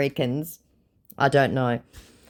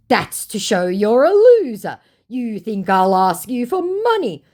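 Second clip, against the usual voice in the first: mocking scammer voice; 8 semitones higher, 7 dB louder than usual. Reading the scammer's reply.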